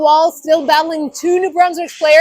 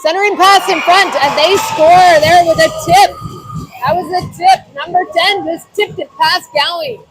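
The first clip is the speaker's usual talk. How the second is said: excited goal call. Real, not acted. Goal scored, commentator shouts.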